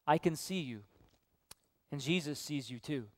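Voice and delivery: a soft, low voice in a dark house; very quiet voice. A narrator's reading. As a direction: say it quietly, like someone hidden watching. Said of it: "very quietly that says to him".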